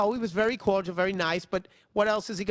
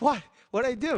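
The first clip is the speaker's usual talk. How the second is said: mock surprise; 8 semitones higher, 4 dB louder than usual. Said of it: "I'm like".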